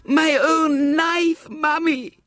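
put-on high, tearful cry of a child; crying little girl. A narrator's reading. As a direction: sob it out in relief to her mother. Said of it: "said Violet Elizabeth".

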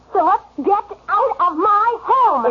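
angry order. Acted. Wife orders husband out of her home, angry. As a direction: throw him out in anger.

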